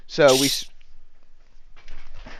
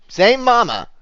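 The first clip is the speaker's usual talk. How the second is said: dramatic reveal; 12 semitones higher, 7 dB louder, slower than usual. Acted.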